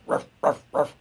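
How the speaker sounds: short, quick ruffs; plain dog bark. Shown as a demonstration. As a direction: imitate an ordinary dog's short barks. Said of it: "your bark is a little bit different".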